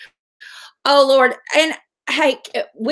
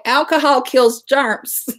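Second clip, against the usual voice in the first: quoting mom; slower than usual. Retold or imitated. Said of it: "she used to say".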